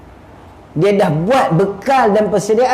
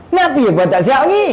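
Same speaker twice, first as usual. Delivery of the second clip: higher, fast exasperated nagging; impatient scolding; 5 semitones higher, faster than usual. Acted. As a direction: rattle it off, fed up. Scolding a dawdling companion. (menegur dengan cepat dan tidak sabar)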